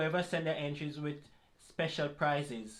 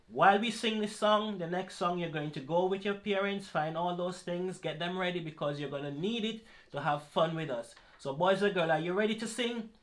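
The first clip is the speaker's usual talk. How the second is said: put-on kids party entertainer; 2 semitones higher than usual. Calling out to boys and girls.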